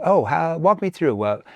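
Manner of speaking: inquisitive, interested question; curious tone. Shown as a demonstration. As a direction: ask like you genuinely want to know. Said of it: "That's a curious tone".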